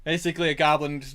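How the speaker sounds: normal talking voice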